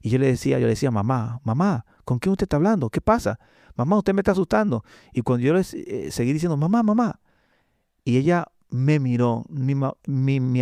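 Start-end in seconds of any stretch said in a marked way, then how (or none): 0.9-4.8 put-on frightened boy calling grandma, pitch climbing high; scared pleading. Boy calling his grandmother at night, frightened and pleading. 6.6-7.2 put-on high, urgent call of a scared child; frightened calling. Boy calling his praying grandmother, high and frightened.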